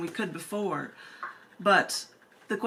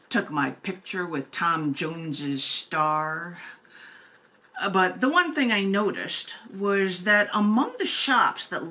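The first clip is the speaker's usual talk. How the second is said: a lightly put-on lower, slower reading voice; another voice; 3 semitones lower than usual. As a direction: read it in a mildly altered mock-serious voice. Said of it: "try to do this in another voice".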